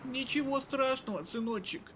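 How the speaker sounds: high, sweet creepy granny voice; sugary old lady, slightly menacing; raspy old woman. Acted.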